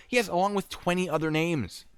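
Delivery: high, insistent retort; exasperated. Retold or imitated. Agent reassures man about names, exasperated.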